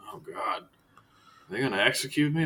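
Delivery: whispered frightened question; a captive dreading execution; scared prisoner. Acted. Prisoner whispers to the priest in fear.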